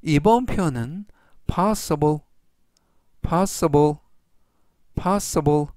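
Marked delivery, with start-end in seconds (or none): 1.4-5.6 possible said clearly three times; teacher modelling possible; careful pronunciation demo. Shown as a demonstration. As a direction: model the word possible for learners. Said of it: "이라고 발음하시면 되겠고요".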